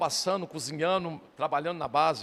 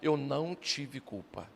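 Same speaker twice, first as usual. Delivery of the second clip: tearful plea; 3 semitones lower, 4 dB quieter, much slower than usual. Retold or imitated. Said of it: "O Israel chorando".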